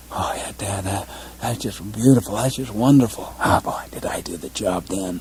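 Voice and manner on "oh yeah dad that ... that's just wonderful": sarcastic son. Acted. Son's sarcastic reply.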